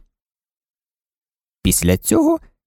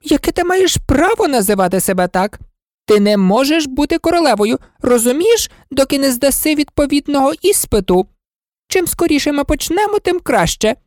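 lecturing queen; 12 semitones higher than usual. Acted. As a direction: lay down the rules imperiously. Red Queen lecturing Alice.

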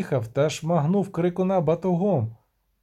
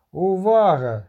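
call for attention; 3 semitones higher, 6 dB louder, slower than usual. Acted. Шевлов кличе до уваги.

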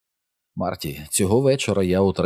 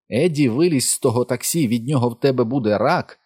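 high, raised voice calling after him; urgent calling out; 5 semitones higher than usual. A narrator's reading. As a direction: narrator voicing an alarmed mother's warning. Frantic mother calls son back, narrated.

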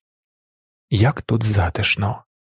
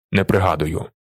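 lower, grudging angry grumble; angry muttering; 4 semitones lower than usual. A narrator's reading. Humiliated passer-by grumbles at Willi, angry mutter. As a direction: swallow your rage and back down. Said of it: "розлючено бурмоче він".

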